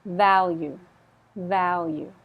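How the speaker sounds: Value opening on a buzzing v; clear initial V. Shown as a demonstration. Teacher modelling value, clear v. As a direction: start Value with a firm v. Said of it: "this one's at the beginning".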